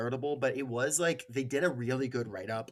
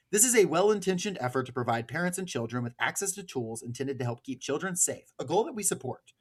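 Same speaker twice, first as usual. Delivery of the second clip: steady formal read of a quoted statement. Acted. Host reading the advocacy group's statement to listeners, formal. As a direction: read it out like an official notice.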